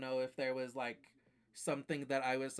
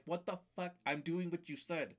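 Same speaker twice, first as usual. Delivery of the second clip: higher, indignant protest; retold exasperation; 4 semitones higher than usual. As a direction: protest at a cheating game. Retold outburst at cheating game.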